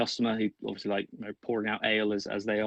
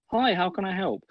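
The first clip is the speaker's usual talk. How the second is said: higher, bright welcoming barmaid; barmaid greeting; 9 semitones higher than usual. Acted. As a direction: chirp a friendly tavern hello.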